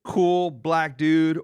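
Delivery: slow, drawn-out mock impression line; a hint of a cheesy impressionist, stretched out; lightly voiced mocking of Rich; imitating Rich Davis. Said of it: "He always just says".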